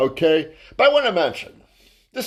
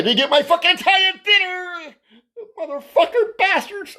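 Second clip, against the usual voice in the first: much higher, louder hammed-up wail; mock outraged shout; 3 dB louder than usual. Comedian ranting about missing his Italian dinner, loud mock wail. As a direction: wail like a cheated child, played for laughs. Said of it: "mock outrage at lost dinner".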